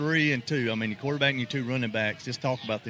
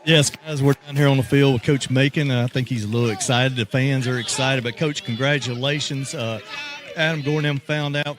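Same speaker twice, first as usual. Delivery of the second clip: raised voice over a roaring crowd; loud sideline report; 7 dB louder than usual. Real, not acted. Sideline reporter calling up to the booth over the crowd, loud. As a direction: project to the booth over the fans.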